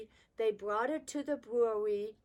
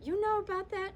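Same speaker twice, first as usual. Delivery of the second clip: surprised question; 9 semitones higher, 4 dB louder, faster than usual. Retold or imitated. Father surprised he was found out.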